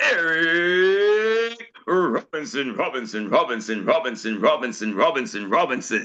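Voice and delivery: long, stretched ring announcer call with deep echoing repeats.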